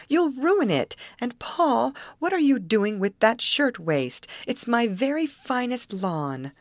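high, pleading wail of dismay. A narrator's reading. Molly to twins dragging off her clothes, wailing. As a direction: scold the children in a high-pitched wail. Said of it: "wailed Molly".

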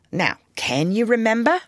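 high firm question; mother checking. A narrator's reading. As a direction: make sure they got it.

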